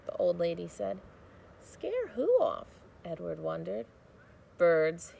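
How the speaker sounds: put-on steady storybook reading for children; read-aloud narration. A narrator's reading. Teacher reading a chapter aloud to students, storybook narration. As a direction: read the chapter to the class, gently paced.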